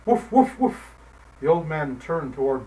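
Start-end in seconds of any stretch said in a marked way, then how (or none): 0.1-0.9 higher, louder yelping woofs; dog yelping at the old man. Acted. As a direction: yelp like a dog. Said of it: "the dog yelped".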